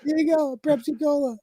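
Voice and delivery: tickled repeat of "Prepsi Cola"; delighted repeat. Real, not acted. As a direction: savour the pun with glee. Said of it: "Greg is good".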